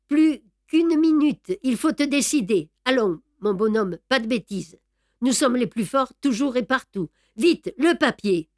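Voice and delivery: un brin plus haut et plus fort, menace pressante; greffier menaçant. Acted. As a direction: presser sa victime sous le revolver. Greffier menaçant tient Beautrelet en joue. (Brédoux menace Beautrelet, voix dure et pressante)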